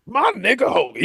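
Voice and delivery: high shouted wrestler impression; booming wrestling-promo shout; Hulk Hogan shout. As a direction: yell it like a hyped-up pro wrestler. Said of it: "was like".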